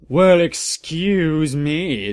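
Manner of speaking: slow, drawn-out huffy retort in a put-on voice; hammed-up indignant shout; mock angry shout. A narrator's reading. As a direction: stretch it out, offended. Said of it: "they both shouted angrily".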